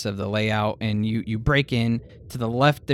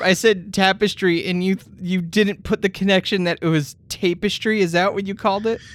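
exasperated; 9 semitones higher, 6 dB louder than usual. Real, not acted. Exasperated GM explaining.

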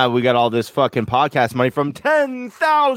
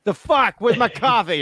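bad Brooklyn impression; 9 semitones higher, slower than usual. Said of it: "I don't do accents".

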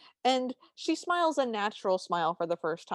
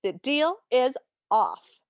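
whispered, slow and breathy cartoon line; 2002 cartoon voice; 4 semitones higher, 5 dB louder, slower than usual. Mice calling off the deal in a whispered cartoon tone. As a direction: whisper it like an early 2000s cartoon. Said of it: "two thousand and two tone of voice".

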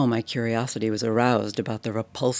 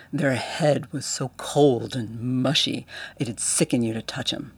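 lightly voiced Cockney bellhop telling a tale; a touch of a lively London servant, getting worked up; Cockney bellhop retelling a fight, mildly excited. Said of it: "Thomas's Cockney dialect".

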